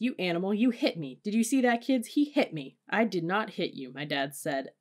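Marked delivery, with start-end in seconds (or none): 0.0-2.8 high, loud accusing outburst; screaming. A narrator's reading. Mother to dad and kids after shove, screamed accusation. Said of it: "My mother screamed in his face". 2.9-3.9 "I did not hit you" with each word stressed; every word emphasized. A narrator's reading. Dad denying it, "I did not hit you" word by word. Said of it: "emphasizing every word".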